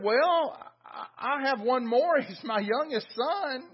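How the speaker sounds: amused father, lightly acted; laughter in voice. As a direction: lightly play a chuckle under the words. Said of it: "hear the laughter in his voice".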